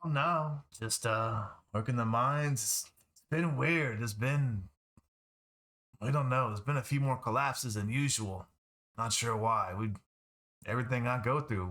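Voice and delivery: lightly voiced gruff miner, slightly lilting; hint of a working miner chatting about the job. Game master voices the miner.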